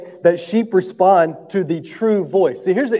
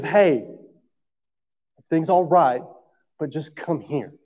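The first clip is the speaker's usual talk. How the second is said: calming; 4 dB quieter than usual. Retold or imitated. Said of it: "it's a calming. It's a stealing".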